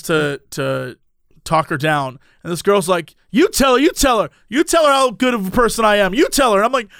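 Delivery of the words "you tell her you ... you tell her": higher, mildly agitated mock insistence; insistent demand. Girl demanding seatmate vouch for her, mock insistence. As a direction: imitate a worked-up girl demanding backup.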